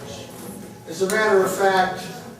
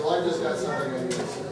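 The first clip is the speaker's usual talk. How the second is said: hushed reply; 5 semitones lower, 5 dB quieter, much faster than usual. Retold or imitated. Whispered reply to friend in meeting.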